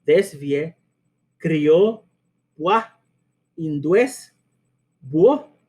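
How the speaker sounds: each word with its vowels merged into one syllable; desvie, crió, pua, búho as glided diphthongs; missing hiatus. Shown as a demonstration. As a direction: list the mispronounced words one by one, pausing between. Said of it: "estos hiatos, ahí diría".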